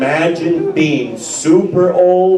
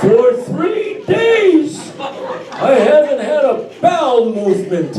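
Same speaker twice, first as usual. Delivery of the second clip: comic shout; 6 semitones higher than usual. Real, not acted. Shouted complaint.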